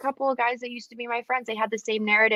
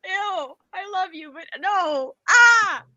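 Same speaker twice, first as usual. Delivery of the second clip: high squealing protest; 9 semitones higher, much slower than usual. Real, not acted. Teased by a friend's accent, squealing protest. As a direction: squeal stop it through laughter.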